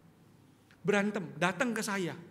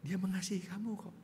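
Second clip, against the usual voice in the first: gentle Jesus; 6 semitones lower, 4 dB quieter than usual. Retold or imitated. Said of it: "Tuhan Yesus ngomongnya gini".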